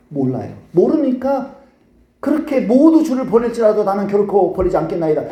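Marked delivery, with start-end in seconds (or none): 2.6-5.2 imitated bold vow, slightly raised voice; confident vow. Peter promising never to forsake the Lord, confident vow. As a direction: declare loyalty with acted assurance. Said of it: "장담을 한다 이 말이에요".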